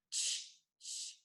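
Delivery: unvoiced "ch, ch" as two short bursts; whispery, separate "ch, ch"; isolated ch sound. Shown as a demonstration. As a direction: say "ch, ch" as bare consonant sounds, no vowel. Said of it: "C H".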